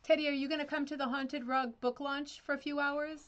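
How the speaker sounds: high, loud, teasing invite; playful invitation. Real, not acted. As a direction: coax him brightly. Playfully inviting her son.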